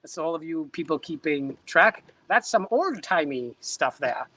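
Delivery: a lightly voiced old-time announcer; old-timey voice. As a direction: put on an old-timey newsreel voice. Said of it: "that's my old-timey voice".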